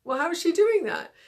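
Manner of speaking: mock amazement, rising in pitch; puzzled fuggler. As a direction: wonder aloud like a baffled little gremlin. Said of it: "and it's like".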